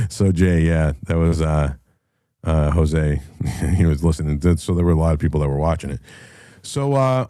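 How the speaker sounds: ordinary delivery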